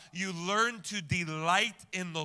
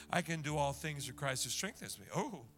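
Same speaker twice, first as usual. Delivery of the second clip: soft repetition; 4 semitones lower, 7 dB quieter than usual. Shown as a demonstration. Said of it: "replace them with a repeat".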